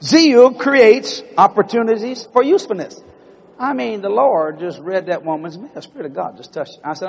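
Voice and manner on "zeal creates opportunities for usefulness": slow, weighty proclamation; preacher announcing his text, slow; proclaiming the theme. Acted. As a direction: lay down the text slowly. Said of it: "sermon theme proclaimed".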